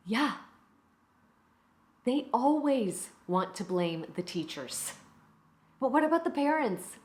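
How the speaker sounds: mildly indignant teacher, deliberate pauses; exasperated teacher. Acted. A teacher complains that parents escape all blame, exasperated. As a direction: vent about blaming the teachers, pointed emphasis. Performs monologue as fed-up teacher.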